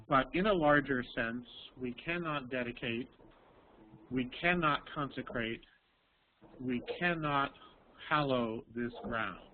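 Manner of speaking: measured speech-giving cadence; oratory read. Shown as a demonstration. Teacher modeling the final paragraph for students, measured orator cadence. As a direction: deliver it like a famous address. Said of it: "would you like to read a little bit".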